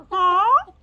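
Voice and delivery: sharp, high, loud huh that sounds rude; rude-sounding huh. Retold or imitated. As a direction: throw the huh at them like an insult. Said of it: "Like rude".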